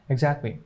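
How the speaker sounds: "Exactly" with the t dropped; silent T. Shown as a demonstration. Teacher repeats it after the rule, silent T. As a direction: leave the t out of "Exactly". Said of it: "T will be totally silent".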